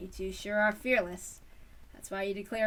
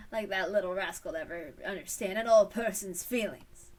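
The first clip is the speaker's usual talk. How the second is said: chuckling; 3 semitones lower, 3 dB louder than usual. Acted. Old man chuckling.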